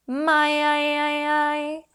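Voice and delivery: "I" rising high and loud; upward inflection. Shown as a demonstration. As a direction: lift each "I" upward like a question. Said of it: "on an upward inflection".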